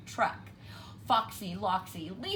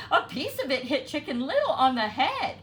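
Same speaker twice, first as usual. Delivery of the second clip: hurried; 6 semitones higher, 7 dB louder, faster than usual. A narrator's reading. Hen explains in panic.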